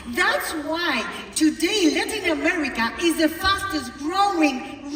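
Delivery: loud, fast rallying cry; rousing speech. Real, not acted. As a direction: fire up the crowd. Rallying the audience.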